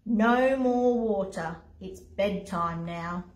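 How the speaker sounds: weary bedtime firmness; firm refusal. Acted. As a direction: put your foot down slowly, dropping at the end. William refuses lion another drink.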